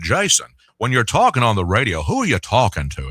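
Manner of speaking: lightly voiced radio boss; a hint of the old GM's way of talking; imitated station manager. Manager questioning his young radio host, lightly imitated boss voice. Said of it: "that's how he talked".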